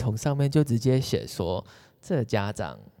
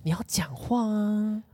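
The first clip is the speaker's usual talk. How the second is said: coaxing parent; 9 semitones higher, 3 dB quieter, slower than usual. Pretend.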